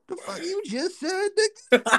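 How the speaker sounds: high-pitched, incredulous retort; acted disbelief. Young worker to coworker who catcalled a big lady, incredulous. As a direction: squeal it in mock outrage.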